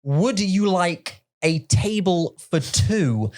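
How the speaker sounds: slow, exaggerated dumb waiter voice; drawn-out mock waiter; imitating waiter. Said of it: "I would think he's like Patrick".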